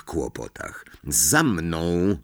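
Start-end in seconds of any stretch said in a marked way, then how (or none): 1.1-2.2 mild snarl. Acted. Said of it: "warknął Snape".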